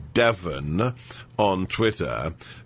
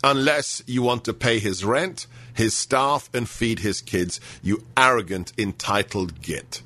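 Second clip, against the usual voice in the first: indignant rant. Retold or imitated. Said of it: "I let myself go a little bit there".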